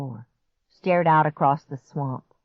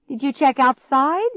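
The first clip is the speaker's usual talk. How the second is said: high, loud squeaky question; squeak; 9 semitones higher, 6 dB louder than usual. A narrator's reading. Scared boy asks about grandparents, squeaking. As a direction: squeak it out anxiously. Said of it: "came out in a squeak".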